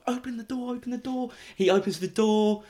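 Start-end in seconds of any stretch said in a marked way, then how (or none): 0.1-1.3 high, softened urgent plea; re-enacted small, high voice; pleading. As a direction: beg to be let out. Acting pleading to be let out.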